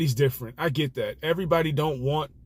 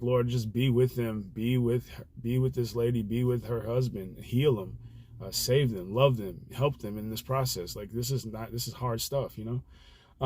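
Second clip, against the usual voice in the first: soft, slightly lowered prayerful voice; retold prayer; 3 semitones lower, 4 dB quieter than usual. Driver praying for passenger and her sick husband, quiet prayer. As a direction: gently plead for them, as in a private prayer. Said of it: "I just started praying for her husband".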